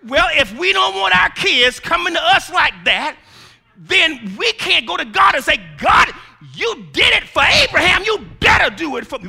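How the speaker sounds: loud, high preacher's cry building to a shout; preaching at full force. Acted. Preacher to congregation, shouting at full force. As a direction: preach it out, rising hard.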